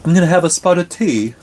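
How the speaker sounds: high, quick mock British accent. A viewer asks for a British accent, so he hams one up. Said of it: "I cannot do a British accent".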